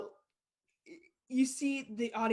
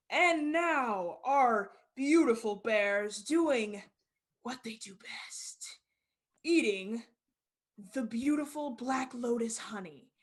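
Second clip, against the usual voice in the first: carnival leader; slower than usual. Acted. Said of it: "the carnival leader just kinda say".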